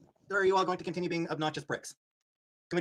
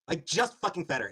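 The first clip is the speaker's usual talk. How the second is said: slow, louder, each word pressed; exasperated insistence; 2 semitones higher, 4 dB louder, slower than usual. Real, not acted. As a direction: spit it out slowly, fed up. Angry at chat accusing him.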